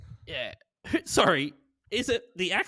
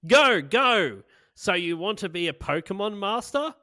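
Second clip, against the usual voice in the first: higher, emphatic opening line, loud on the first words; lyric recital; 4 semitones higher, 4 dB louder, slower than usual. Acted. Host reading song lyrics to the group, emphatic recital. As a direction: punch the opening words, then ease the volume. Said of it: "Okay, it goes".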